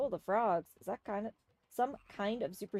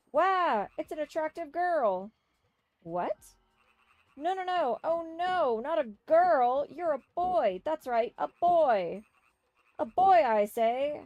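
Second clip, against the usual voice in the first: loud, higher, blustering man insisting; blustering shout; 7 semitones higher, 10 dB louder than usual. Acted. Man loudly insists the girl is a boy, blustering shout. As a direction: bluster and bellow, correcting yourself hard.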